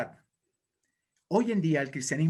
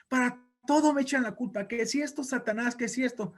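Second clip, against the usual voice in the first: high, hammed-up aggrieved complaint; tearful Satan; 7 semitones higher than usual. Satan tells demons he is always blamed, high whiny voice. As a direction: play a devil feeling sorry for himself. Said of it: "estaba llorando a mares".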